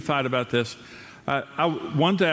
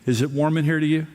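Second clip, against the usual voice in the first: pickup line; 2 semitones higher than usual. Pretend. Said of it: "my pickup line would be".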